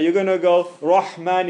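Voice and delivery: loud heavy "Rahman" from a wide mouth. Shown as a demonstration. Teacher warns the class about the heavy letter. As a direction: stress the heavy Rah in Rahman. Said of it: "If you don't have that".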